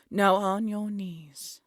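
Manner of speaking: slow imperious command; cold command. Acted. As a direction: drag out each word as an order. Queen commands captured poacher.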